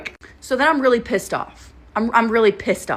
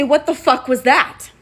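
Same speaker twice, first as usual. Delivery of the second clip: louder, higher, confronting her date; angry demand; 5 semitones higher, 5 dB louder than usual. Retold or imitated. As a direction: snap it at him in the car. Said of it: "Now I'm angry".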